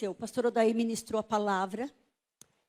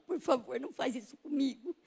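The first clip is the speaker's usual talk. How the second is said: softly begging God; pleading prayer; 7 dB quieter than usual. Retold or imitated. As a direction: plead in a small, softer voice. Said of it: "Eu fazia assim".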